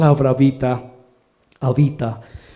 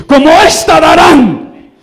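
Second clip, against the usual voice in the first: voice of God; 11 semitones higher, 10 dB louder, slower than usual. Acted. Voz de Dios repetida, más intensa.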